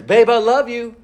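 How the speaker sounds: gently calm him down with love; soft loving words. Retold or imitated. Wife cooling husband down with tender words. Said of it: "Cooling me down with soft words".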